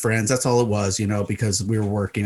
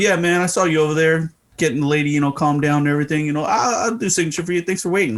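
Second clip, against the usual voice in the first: lightly voiced, higher-pitched athlete impression; a hint of an easygoing basketball star; bad Charles Barkley; 4 semitones higher, faster than usual. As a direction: do a loose, badly faked celebrity voice. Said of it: "my worst impression of Charles Barkley".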